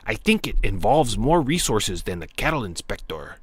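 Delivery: hammed-up cholo-style Mexican accent. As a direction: play the rancher with a put-on Mexican accent. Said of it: "I gotta stop the Mexican accent".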